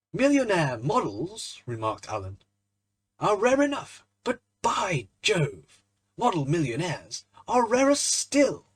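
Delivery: slow, loud, witty remark; wry quip. A narrator's reading. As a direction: savour the punchline slowly. Alan's closing quip.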